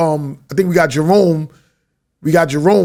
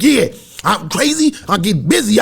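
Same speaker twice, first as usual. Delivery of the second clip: retold boast; 3 semitones higher than usual.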